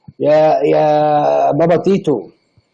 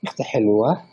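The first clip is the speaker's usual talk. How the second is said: trying a voice. Pretend. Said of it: "حبيت أر-، أجرب صوتي".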